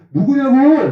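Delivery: high, sharp mock demand; preacher retorting to a rude caller, mock angry; snapping back. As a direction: fire it back at him. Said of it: "내가 막 이랬지".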